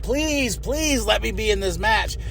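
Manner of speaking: soft, pleading mock beg; begging. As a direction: plead softly like a beggar. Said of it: "he's begging".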